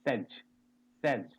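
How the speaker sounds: says as sez with a short e and a z ending. Shown as a demonstration. Teacher teaching the class how to say says. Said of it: "This is".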